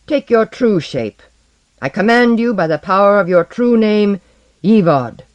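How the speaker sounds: loud, high sorcerer's command. Acted. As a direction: order it to reveal itself. Blackbeard commands the dragon.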